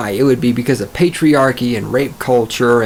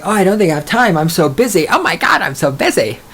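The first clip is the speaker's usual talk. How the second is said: higher-pitched mocking girl; mock flaky excuse; 5 semitones higher than usual. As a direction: whine the excuse in hammed-up imitation.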